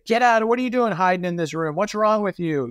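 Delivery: a hammed-up harsh telling-off; mock scolding. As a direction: snap at them like an exasperated boss. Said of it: "He doesn't say".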